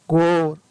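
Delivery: गोर with a long, held "oh". Shown as a demonstration. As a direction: draw out the vowel ओ in गोर. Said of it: "इसको ओ बड़ा ज्यादा लंबा".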